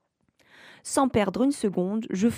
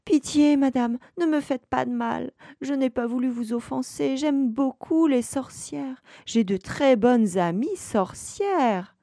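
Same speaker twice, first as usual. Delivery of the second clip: begging; 5 semitones higher than usual. Acted. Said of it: "je me mets à supplier".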